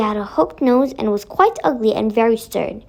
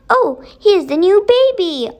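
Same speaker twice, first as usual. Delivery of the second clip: higher, louder eager cry; excited children; 6 semitones higher, 4 dB louder than usual. Acted. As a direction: announce the newcomer with delight.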